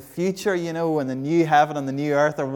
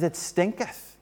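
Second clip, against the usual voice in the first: alarmed warning; 4 semitones higher than usual. Retold or imitated. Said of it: "She says".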